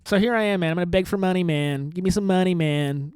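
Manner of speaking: a hint of a mooching homeless guy; begging loser voice. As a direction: plead for a dollar like a down-and-out guy. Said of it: "You like this voice, man?".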